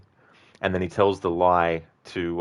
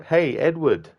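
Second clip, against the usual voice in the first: yelling out; 8 semitones higher than usual. Retold or imitated. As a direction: shout the name to get attention. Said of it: "is yelling out".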